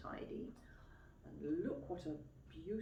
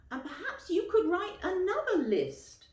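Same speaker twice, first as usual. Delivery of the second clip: high, loud, with a laugh; laughing children; 13 semitones higher, 9 dB louder than usual. A narrator's reading. The children joke to Mum and Dad, laughing. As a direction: tease the parents with a giggle. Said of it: "we said".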